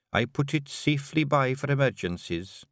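lightly voiced Scottish pixie wife, teasing; a gentle Scots lilt for Jeanie; a hint of a Scottish wife; Jeanie, Scottish Feegle wife. Jeanie offers liniment.

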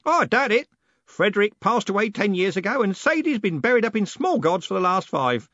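loud, high, jolly bellow; old merchant bellowing cheerfully about the dead. A narrator's reading. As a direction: boom it out merrily. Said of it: "Mister Parker bellowed cheerfully".

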